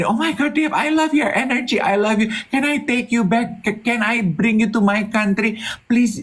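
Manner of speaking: put-on pleading, pitched way up, repeated over and over. Retelling how someone kept inviting them abroad: imitating someone's repeated pleading invitation. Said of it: "Dia berulang-ulang gini".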